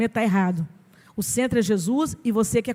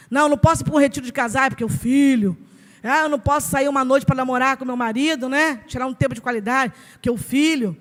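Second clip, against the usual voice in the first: mock excuses; 4 dB louder than usual. Mãe imitada dando desculpas.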